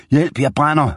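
high, panicked cry for help; screaming in pain. A narrator's reading. Scalded gunman screams for help after hot porridge, panicked high cry. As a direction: yelp it out like he's on fire. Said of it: "råbte og skreg".

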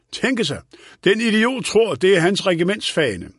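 lightly voiced old man complaining about an idiot; indignant old man. A narrator's reading. Old man scoffs at colonel. (let forarget gammel herre)

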